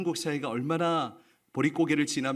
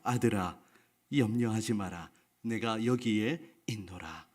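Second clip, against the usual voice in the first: lower, calm and solemn from above; solemn voice of God; 5 semitones lower, 4 dB quieter than usual. Acted. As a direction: speak as God, grave and steady. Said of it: "엄숙한 소리가 들려왔습니다". (하늘에서 들려오는 낮고 엄숙한 하나님의 음성)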